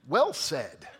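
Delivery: light mock British accent; clipped little British accent. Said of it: "that's how the Brits talk".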